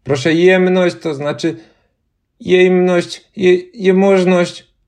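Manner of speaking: put-on high girl stumbling over the word; a girl trips on a strange title; fumbling girl. A narrator's reading. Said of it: "odezwała się dziewczynka".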